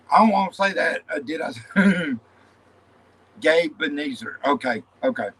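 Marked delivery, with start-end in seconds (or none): 3.4-4.4 "Gabe" with a long A, as in babe; lower, careful GAYB at the start of "Gabe Ebenezer"; chosen pronunciation. Shown as a demonstration. Confirming a panel member's name, long-A pronunciation. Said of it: "The first one".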